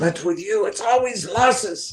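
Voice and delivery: put-on clipped Russian-American accent. Retelling what a famous man said at the end of a conversation, clipped Russian American accent. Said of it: "he said it with a clipped Russian American accent".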